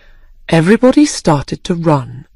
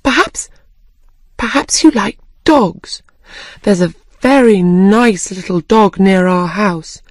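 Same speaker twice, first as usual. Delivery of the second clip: put-on hesitant start, then chatty girl's voice; lightly voiced eager Alice; 4 semitones higher than usual. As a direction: prattle on, then catch yourself apologetically. Story figure placates the mouse.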